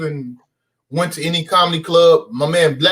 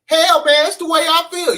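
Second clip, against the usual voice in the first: higher put-on teacher voice; Mister Oliver impression; 12 semitones higher than usual. A kid doing the gym teacher catchphrase for classmates. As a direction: deliver his catchphrase in the teacher's voice. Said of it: "known around the school for doing Mister Oliver".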